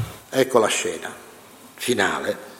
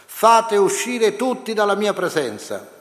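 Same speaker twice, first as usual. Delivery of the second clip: higher, slow commanding cry; 10 semitones higher than usual. A narrator's reading. Joseph ordering the room cleared, raised slow command. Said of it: "e gridò".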